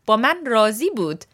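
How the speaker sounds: راضی said raa-ZI within the phrase, weight on "zi"; stress on second syllable. Shown as a demonstration. Teacher showing how meaning changes to satisfied, second-syllable stress on راضی. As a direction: lean on the last syllable of راضی. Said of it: "If you put the emphasis on the second word".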